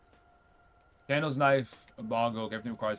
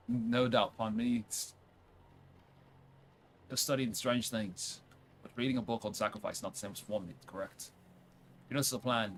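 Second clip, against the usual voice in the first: put-on softer reading with a tentative French accent; amateur French accent, trailing softly; attempted French accent; 2 semitones lower, 5 dB quieter than usual. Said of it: "See, with a French accent".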